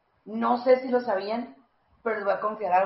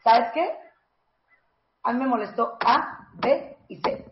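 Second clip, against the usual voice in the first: direct and brief; slower than usual. Shown as a demonstration. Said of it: "así tiene que ser una conversación".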